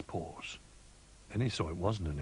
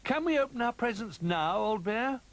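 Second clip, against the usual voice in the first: high, louder excited rabbit; impatient little rabbit on Christmas morning; eager pleading; 5 dB louder than usual. A narrator's reading. Excited Rabbit asks about presents.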